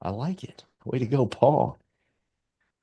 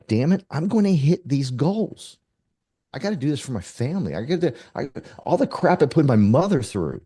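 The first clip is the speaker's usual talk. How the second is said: emotional vow; 5 semitones higher than usual. Retold or imitated. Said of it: "tears coming down your eyes".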